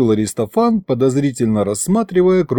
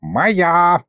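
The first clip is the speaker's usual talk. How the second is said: high-pitched, insistent claim; possessive warning; 6 semitones higher than usual. A narrator's reading. Sorcerer warns the demon off his hand, possessive. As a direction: stake your claim firmly. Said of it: "погрозил ему пальцем колдун".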